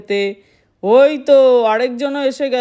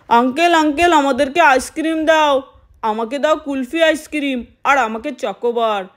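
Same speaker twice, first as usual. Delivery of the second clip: put-on eager kids shouting their orders; children's voices. Children demand ice cream.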